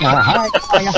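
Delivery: tiny high-pitched hello; mock-timid squeak; nervous greeting. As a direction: act out a rookie shrinking before his idol. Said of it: "nervous as hell".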